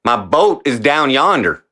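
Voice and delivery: attempted Georgia accent landing in Texas; put-on Southern accent, slightly off. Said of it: "Oh, it's still Texas".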